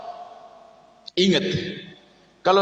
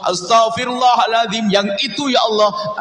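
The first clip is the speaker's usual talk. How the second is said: earnest repentant prayer; 4 semitones higher than usual. Shown as a demonstration. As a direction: pray it like you mean every word, unhurried. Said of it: "Pastikan Anda sesaat saja Anda menghadap kepada Allah".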